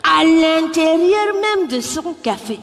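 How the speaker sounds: put-on slow, drawn-out Cameroonian accent; Cameroonian speech. Cameroonian man making a long speech, slow accent. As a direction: stretch every word like a pompous Cameroonian. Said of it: "ils font de très longues phrases pour rien du tout".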